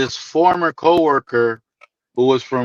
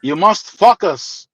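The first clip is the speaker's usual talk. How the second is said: put-on Greek accent; slower than usual. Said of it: "in his heavy accent".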